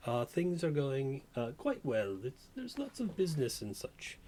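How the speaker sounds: put-on a light British accent for the barmaid; a touch of British lilt, lightly voiced. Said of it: "she has a bit of a British accent".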